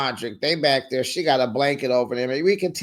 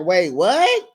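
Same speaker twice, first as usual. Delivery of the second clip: mildly indignant double take; mock heated disbelief; 3 semitones higher, 4 dB louder than usual. Girlfriend hears he's staying in jail, mock heated disbelief. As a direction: question rising sharply in retold disbelief. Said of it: "You know, she's hot".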